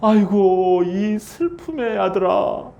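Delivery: mock mourning cry over the son; lament. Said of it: "베놈이라는 뜻이 무슨 뜻인". (높고 큰 "아이고" 곡하는 흉내)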